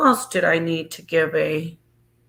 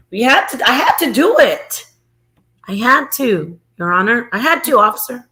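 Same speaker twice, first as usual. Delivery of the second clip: pleading excuse, pitched up on the key words; mock pleading; 2 semitones higher than usual. Defendant to judge and officer, mock pleading. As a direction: plead your case, half-joking.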